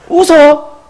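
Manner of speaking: very high, loud indignant outburst; hammed-up angry disbelief; acted quarrel. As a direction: shout back in mock outrage. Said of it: "막 싸우는 거예요".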